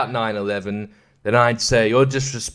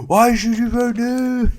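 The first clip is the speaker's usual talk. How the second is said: mock announcer; 10 semitones higher, slower than usual.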